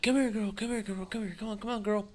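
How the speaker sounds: high sing-song dog-calling voice. Retold or imitated. Calling a stray lab over, high coaxing voice. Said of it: "And I'm like".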